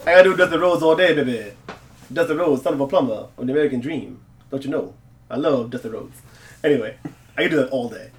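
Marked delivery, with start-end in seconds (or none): 0.1-6.2 Dusty Rhodes impression. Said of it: "I love doing Dusty Rhodes".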